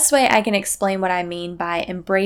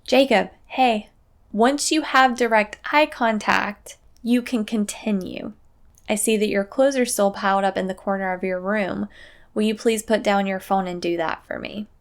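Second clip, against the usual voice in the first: put-on even, unhurried request to a child; calm parent voice asking a favour. Shown as a demonstration. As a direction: state it as an observation, no edge. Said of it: "calmly say".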